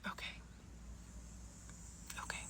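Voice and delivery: tiny, very soft retold okays with a long pause between; stunned acceptance. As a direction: barely voice it, acting taken aback. Taken aback, composing herself after interruption.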